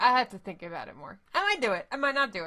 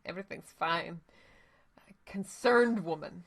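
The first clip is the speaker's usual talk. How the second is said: whisper. Acted. Joking aside to chat.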